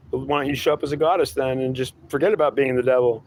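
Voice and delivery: high, pleading whine of a lost believer; whiny seeker voice. Acted. Seeker whining back at his God, high and whiny. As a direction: whine it up high like a fed-up crybaby.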